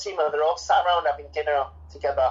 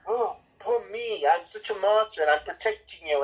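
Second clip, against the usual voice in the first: mock self-pitying martyr; 4 semitones higher than usual. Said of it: "the way he does it is all like".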